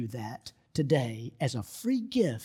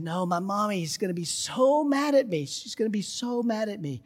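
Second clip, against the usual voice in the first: put-on higher-pitched upset little girl; lightly voiced distraught girl; mock tearful child; 6 semitones higher than usual. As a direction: imitate a child fretting through tears. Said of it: "She burst into tears".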